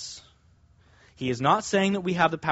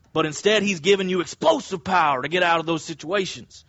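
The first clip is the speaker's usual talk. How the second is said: hyped preacher, rising to a shout on dynamite; mock-excited evangelical preacher; evangelical umbrella man voice. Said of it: "put on my evangelical umbrella man voice here".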